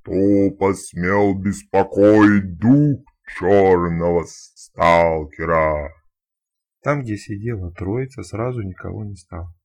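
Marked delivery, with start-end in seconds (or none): 0.0-5.9 booming, very slow ghostly spirit voice; thunderous otherworldly voice. Acted. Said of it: "громовым потусторонним голосом заговорил".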